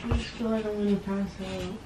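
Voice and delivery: put-on soft, weak sick-girl act; feigned faintness. Woman pranking boyfriend that she might pass out, feigned faintness. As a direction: play it faint and softly.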